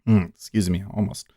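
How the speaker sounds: coughing, clearing the throat; getting over a choke on water; choking on a drink. Real, not acted. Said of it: "I'm choking on some water here".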